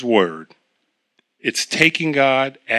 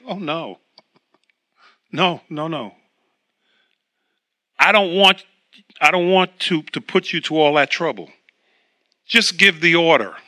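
calm reassurance. Retold or imitated. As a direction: gently wave off the trouble. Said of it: "he seemed to calm down".

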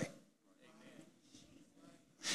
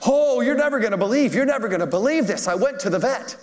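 hysterical on phone; 8 semitones higher than usual. Retold or imitated. Woman phones the pastor, hysterical with excitement. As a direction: gush the news breathlessly. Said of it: "she called up hysterical on the phone".

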